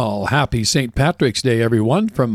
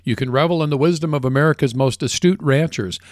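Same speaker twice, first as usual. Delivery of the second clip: upbeat sponsor read for ranchers; polished commercial read; radio ad read. Acted. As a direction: sell it like a radio announcer.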